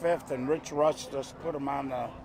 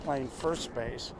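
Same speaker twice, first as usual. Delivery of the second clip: golf announcer voice; 8 dB quieter than usual. Acted. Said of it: "I'm gonna go to my golf announcer voice".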